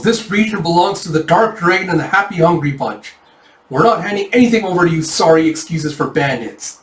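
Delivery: high, forceful declaration; defiant proclamation. Acted. Yona on roof to bandits, high defiant proclamation. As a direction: stake the claim defiantly.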